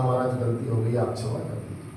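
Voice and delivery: soft, low, fading into a whisper; humble plea. Acted. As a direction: beg forgiveness under your breath. Prostrate, begging sage's forgiveness. (साधु से क्षमा माँगते हुए धीमी, फुसफुसाती विनती)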